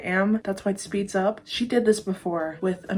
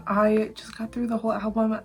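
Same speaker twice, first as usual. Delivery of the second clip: whisper; 3 semitones higher than usual. Real, not acted. Whispered aside.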